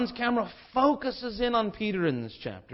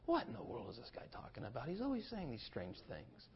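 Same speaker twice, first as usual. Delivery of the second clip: puzzled Peter; 5 semitones lower, 13 dB quieter than usual. Retold or imitated. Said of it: "Peter's probably saying".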